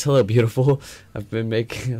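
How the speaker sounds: put-on joking Russian accent pickup line; a light Russian accent, half-laughing. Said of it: "in a Russian accent".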